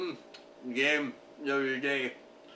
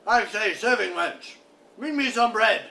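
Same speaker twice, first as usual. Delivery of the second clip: calling out; 4 semitones higher, 4 dB louder than usual. Acted. Calling to the serving wench.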